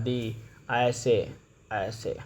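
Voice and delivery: दी drawn out as a long dee, slow; दी said slowly as dee; pronounced dee. Shown as a demonstration. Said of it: "T H E को दी पढ़ा जाता है".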